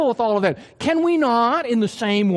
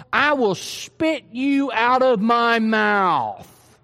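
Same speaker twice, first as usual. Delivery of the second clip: slow, deliberate disgust; disgusted warning; much slower than usual. Acted. Jesus to the lukewarm church, slow and disgusted. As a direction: drag out each word with contempt.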